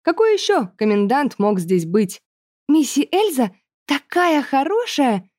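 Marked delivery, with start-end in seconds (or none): 2.7-5.3 put-on high, slow sweet girl voice; Isabella's voice. A narrator's reading. Girl praising the commandant to narrator, sweet and high. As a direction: gush sweetly like a little girl. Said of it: "сообщила мне Изабелла".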